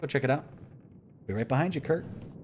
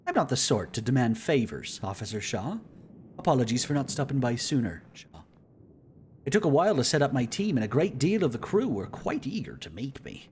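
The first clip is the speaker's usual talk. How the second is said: a hint of a jovial explorer; lightly voiced, cheerful celebrity; charming navigator voice; 4 semitones higher, 4 dB louder than usual.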